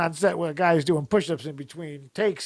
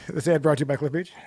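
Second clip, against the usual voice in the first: fast ad read; 3 semitones lower, faster than usual. Pretend. Jokey fake ad read.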